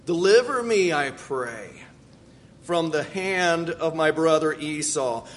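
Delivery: earnest, measured reading of a prayer; scripture reading. Acted. Preacher reads Jacob's prayer to the congregation, earnest. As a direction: read it like a heartfelt prayer.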